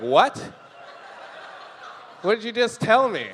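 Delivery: shocked viewer. Retold or imitated. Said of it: "You're like".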